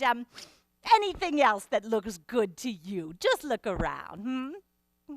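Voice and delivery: lightly voiced grand lady rattling off orders; a hint of a pampered passenger ordering the help; Miss Spatz. Passenger reels off demands.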